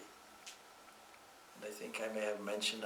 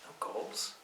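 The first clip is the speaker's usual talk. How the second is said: mock shock in a hushed voice; a touch of breath-caught disbelief; mildly shocked. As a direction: retell a stunned, disbelieving question. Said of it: "He was shocked".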